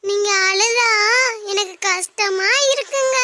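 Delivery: slow, crying plea; a touch of mock sobbing; tearful plea. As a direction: beg him through tears to stop. Wife pleads with crying husband.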